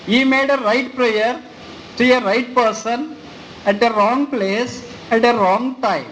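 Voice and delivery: very slow, every phrase spaced; slow solemn proclamation. Acted. Preacher proclaiming the rich man's prayer, slow and solemn. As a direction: lay out each phrase weightily.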